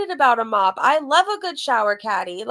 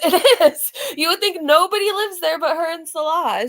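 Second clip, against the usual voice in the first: laughing; 5 semitones higher, 4 dB louder than usual. Real, not acted. Laughing at the commentary.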